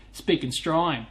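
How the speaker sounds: "Australian" run together as "Strine"; slurred Strine. Shown as a demonstration. Streamer mocking his own accent, "Australian" slurred to "Strine". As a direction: say "Australian" as one squashed syllable. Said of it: "We tend to slur our words together".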